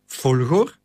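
a startled, puzzled rise on the name; bewildered. A narrator's reading. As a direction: ask the name back, caught off guard. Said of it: "vroeg senator Agrippa verbijsterd".

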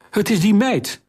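very high, panicked shout. A narrator's reading. Accomplice shouts blame at the girl to the queen, very high. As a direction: point the finger, pitch up high and shrill with fear. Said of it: "schreeuwde zijn met sieraden behangen medeplichtige".

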